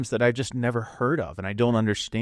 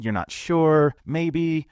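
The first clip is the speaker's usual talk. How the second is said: higher, rising questioning ends; uptalk demo; 5 semitones higher, slower than usual. Shown as a demonstration. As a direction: end on an up note as if unsure. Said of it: "When you end on an up note".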